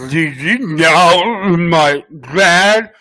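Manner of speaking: put-on slow, slurred drunk reading. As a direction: drag the words like you're drunk. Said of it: "I gotta do a drunk".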